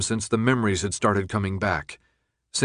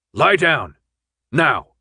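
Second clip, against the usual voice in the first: louder shouted command; shouted order; 4 semitones higher, 5 dB louder, slower than usual. Acted. The guard shouts at Thomas, commanding. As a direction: bark it after the slap.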